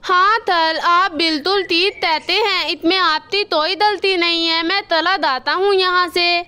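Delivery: lisped, "अथा दो तल" for "अच्छा तो सर"; lisping crow. Acted. Kalu crow to the doctor, lisping after the surgery. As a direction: say "थाता" with a childlike lisp. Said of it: "अब तुम्हारी जुबान तोतलाती है।".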